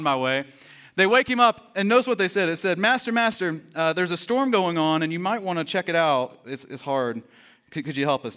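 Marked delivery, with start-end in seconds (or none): 2.8-8.4 mock-casual request that sinks away; mock polite request. Disciples waking their master about the storm, mock polite request.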